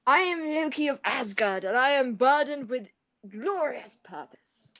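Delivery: lightly voiced Loki, fading away at the end; Loki impression. Quoting Loki for a friend, a lightly voiced Loki. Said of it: "Sorry, Tom Hiddleston, that ruined your career".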